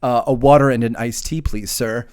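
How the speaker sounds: timid politeness. Retold or imitated. Hungover friend repeats his order to the bartender, timidly polite. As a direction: imitate a cowed, polite customer.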